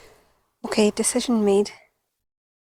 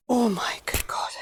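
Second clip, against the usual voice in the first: shaken whisper; 3 semitones higher than usual. Real, not acted. After the toad nearly jumps.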